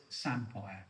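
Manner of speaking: lightly imitated Yorkshire "Samphire", ending -fire; Yorkshire accent. Quoting James Martin's correction, light Yorkshire accent. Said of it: "in his Yorkshire accent".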